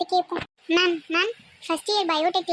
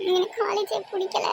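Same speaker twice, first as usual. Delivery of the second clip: tearful whine, pitched up a little; acted crying; 3 semitones higher than usual. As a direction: complain through mock sobs. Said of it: "நீ ஏன்டி இப்ப அழுகுற?". (அழுதுகொண்டே சொல்வது போல்)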